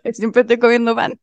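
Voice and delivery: talking through a mouthful of bread; mouth full. Real, not acted. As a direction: speak while chewing bread. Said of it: "Yo estoy comiendo un pancito".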